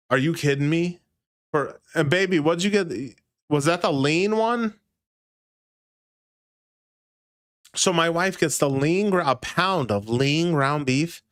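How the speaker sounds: Raymond voice. Retold or imitated. Streamer voicing Raymond fuming at beef prices, rising mock outrage. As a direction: rant in mock disbelief, pitch rising as it goes. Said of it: "talk like Raymond for a second".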